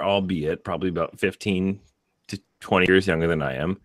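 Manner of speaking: ordinary talk, nothing marked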